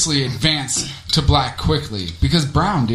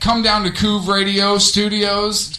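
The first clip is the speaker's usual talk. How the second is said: fight promo announcer. Pretend.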